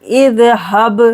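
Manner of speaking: इज़हब with a bouncing echo on the final b; qalqala on ba. Shown as a demonstration. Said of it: "बा पर करेंगे कलकला".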